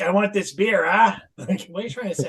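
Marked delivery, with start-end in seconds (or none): 0.0-1.2 Boston drinker parody ending on "ah"; mock Boston accent. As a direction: put on a Boston-Canadian accent. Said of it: "he has a very Boston accent".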